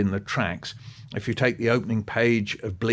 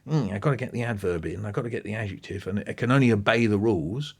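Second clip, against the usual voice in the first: mock fussy writer. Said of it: "Their approach to language isn't".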